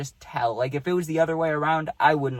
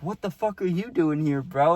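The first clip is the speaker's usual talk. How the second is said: friendly disbelief, pitched up; not mad, surprised; 3 semitones higher than usual. Retold or imitated. Teammate to friend in the room, baffled but not mad. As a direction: ask it baffled but without anger. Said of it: "he's not mad. He's like, exactly how I said that".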